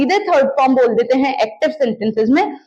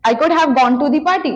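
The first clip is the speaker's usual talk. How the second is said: slower, smoother repeat; much slower than usual. Shown as a demonstration. Teacher repeating the party sentence slowly. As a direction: say it again at an easy pace. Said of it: "तो मैं बोलूंगी".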